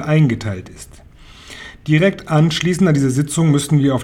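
lightly voiced witch leader, emphatic; a hint of imperious head witch giving orders. Grand High Witch addresses the assembly.

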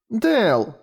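put-on high child's cry of the name; high-pitched shout of the name; girl calling out. A narrator's reading. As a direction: call him sharply, like a frightened little girl. Girl calls out in danger.

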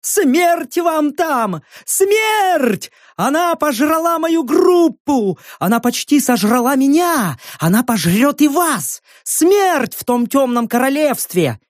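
put-on high, frantic old woman's rant; crazed hag ranting. A narrator's reading. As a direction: rave like a mad old crone. (безумная старуха кричит)

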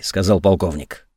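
ordinary delivery

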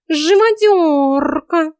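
furious cat yell; indignant cry. A narrator's reading. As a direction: accuse her in outrage. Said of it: "возмутился лентяй".

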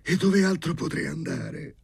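high, meek question; cowed high-pitched reply; timid. A narrator's reading. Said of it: "rispose timidamente Sharikov".

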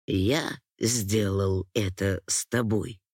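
a low, slow male voice, stricken; trembling voice. Acted. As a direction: ask it low and slowly, horrified at himself. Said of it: "спросил он дрожащим голосом".

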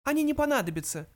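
high, small mouse voice; mouse interjecting. A narrator's reading. Mouse interrupts talk of fjords, high voice. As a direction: cut in with a high little voice. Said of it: "вмешался Фрэнки".

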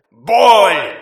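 a hero repeating the pain spell on his opponent; commanding shout. Acted. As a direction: slam the spell down on him. Spell cuts off the surrender.

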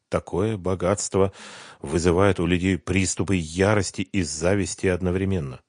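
plain reading voice

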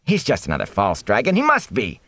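agitated, high-pitched crowd cries; villagers shouting. A narrator's reading. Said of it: "men and women shouting over one another".

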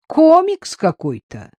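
high incredulous exclamation; surprised. A narrator's reading. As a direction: scoff at it in disbelief. Surprised scoff at odd description.

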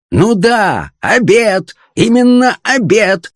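high-pitched, exasperated outcry; irritated yell. A narrator's reading. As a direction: yell back with mounting irritation. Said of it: "завопил фон Хартман, раздражаясь всё больше".

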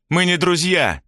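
put-on girl denies being his friend, outraged; indignant. A narrator's reading. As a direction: snap back, offended. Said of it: "возмутилась Тоня".

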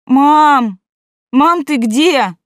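put-on hollow child's voice from a pipe; through a tube. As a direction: call as if from inside a tube. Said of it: "Гулкий детский голос, словно из трубы".

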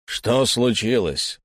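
slow demanding challenge; demanding, challenging. Acted. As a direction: confront the stranger. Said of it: "требовательно с вызовом спросил Эльнар". (требовательно, с вызовом)

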